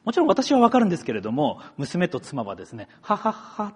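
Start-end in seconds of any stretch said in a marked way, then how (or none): 3.0-3.7 high, spelt-out mock laugh; imitated laugh. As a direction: imitate family laughing along, puzzled. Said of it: "って笑う".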